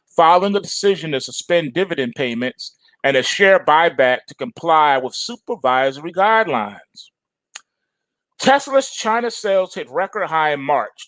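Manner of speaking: reading out headlines in a steady news voice. Acted. Reading headlines to viewers before commenting, steady news delivery. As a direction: read it like a newswire.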